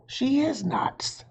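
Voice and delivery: put-on high, slow disbelieving kid voice; exasperated boy. Jack watches his sister, exasperated. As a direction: stretch it out in disbelief. Jack's thought, alarmed.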